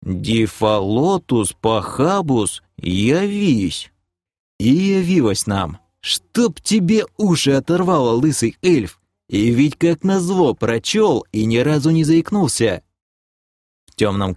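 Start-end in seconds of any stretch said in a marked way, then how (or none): 0.0-3.9 slow, drawn-out spell reading; joyful incantation. Acted. Elf reads the scroll to summon, gleefully incanting. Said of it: "радостно забормотавший". 6.0-12.8 high, indignant grumble; exasperated cursing. Acted. Cursing the bald elf for reading it, exasperated.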